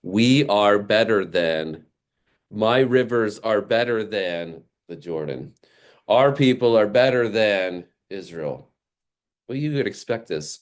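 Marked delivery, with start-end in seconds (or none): 0.0-8.7 selfish anger. Retold or imitated. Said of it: "when he thinks".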